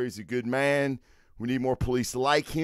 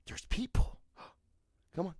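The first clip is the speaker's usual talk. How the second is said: breathy hushed gasp, much softer; mock gasp; 5 semitones higher, 10 dB quieter than usual. Owner fakes excitement so the dog greets people. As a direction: feign delight to excite the dog.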